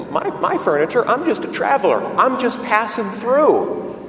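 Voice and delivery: high, protesting businessman's reply; taken-aback visitor. Acted. Businessman answering the rabbi's question, taken aback and protesting. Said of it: "Man says".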